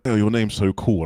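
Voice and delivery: mock admirer; impressed. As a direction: gush lightly over a cool name. Others admire his rare name.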